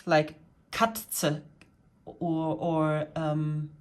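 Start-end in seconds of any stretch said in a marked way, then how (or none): 0.7-1.4 Katze with a crisp ts in the middle; harsh T S sound. Shown as a demonstration. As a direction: hit the tz in Katze as a hard T plus S. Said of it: "this harsh T S sounds".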